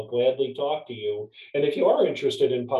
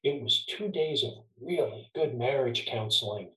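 softer, leaned-in confiding voice; retold quiet confession; 3 semitones lower, 6 dB quieter than usual. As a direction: drop the voice low, a private aside. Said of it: "And he said quietly".

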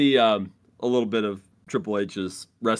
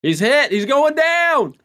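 mock announcer; 14 semitones higher, 5 dB louder, much slower than usual. Mock commentary on cough.

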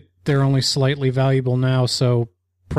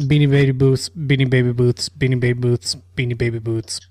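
quick tongue-twister repetition; rapid repeats on request; five times fast; 2 semitones lower than usual. Shown as a demonstration. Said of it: "Say Beanie Baby booths five times fast".

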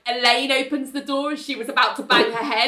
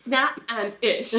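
retold catchphrase; 4 dB quieter, slower than usual. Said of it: "Elaine goes".

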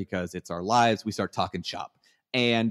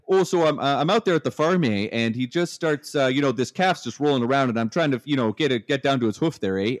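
put-on loud, higher-pitched thick Canadian accent; stereotypical Canadian; 5 semitones higher, 5 dB louder than usual. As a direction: imitate a Canadian vet spinning a farm story. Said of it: "trying to talk like the stereotypical Canadian".

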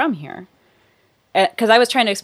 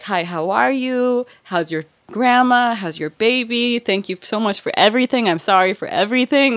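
Southern niceness; 5 semitones higher, 3 dB louder than usual. Retold or imitated. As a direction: pour on the Southern charm. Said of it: "I'll be Southern about it".

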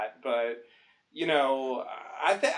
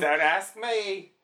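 put-on Australian accent; 3 semitones higher, much slower than usual. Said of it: "That's my Australian".

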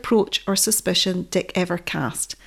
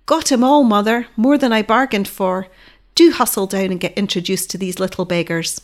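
joyful call; 4 dB louder than usual. Acted. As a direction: call up to her with glee. Son calls out to mother joyously.

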